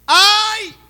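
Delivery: piercing high, loud "Ai!"; anguished cry. Acted. Preacher urging his generation to cry out. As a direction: wail it out like a man undone.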